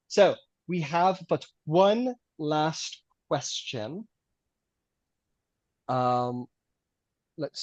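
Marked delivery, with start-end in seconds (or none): 0.0-4.1 louder, stately host opening the last question; formal host. Acted. Host addresses the debate hall, stately and grand. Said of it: "and it says".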